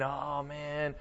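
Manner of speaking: lightly voiced office whiner; mild mock gripe about work; mock complaining. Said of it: "Us who complain".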